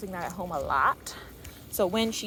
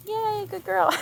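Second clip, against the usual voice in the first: high, cheerful praise instead of yelling; happy dog praise; 11 semitones higher, slower than usual. Shown as a demonstration. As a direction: show how to praise, not scold. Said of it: "Notice I'm not yelling at her. I'm just being like".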